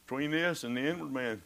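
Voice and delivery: usual speaking voice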